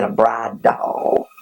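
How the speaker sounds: put-on high, slow little-boy request; small boy voice. Little boy tells Santa his wish, high and slow. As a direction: shyly ask Santa for the doll.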